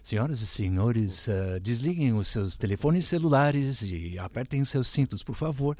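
calm Portuguese in-flight announcement; airline safety announcement. Shown as a demonstration. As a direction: read it like a cabin safety briefing. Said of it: "giving the safety instructions in Portuguese".

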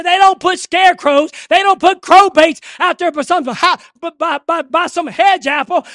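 shouted, rising revival preaching; fiery pulpit cry; preaching at full force. Acted. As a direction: preach it hard and loud to the congregation.

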